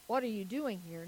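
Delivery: restrained retold question, gently put; probing question. Man clarifies his deeper question.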